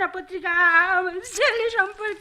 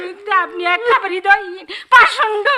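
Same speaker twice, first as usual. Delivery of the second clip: louder, crying reproach; tearful accusation; 5 dB louder than usual. Acted. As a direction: hurl the insult through tears. Mother accuses editor. (কান্না মেশানো রাগী অভিযোগ)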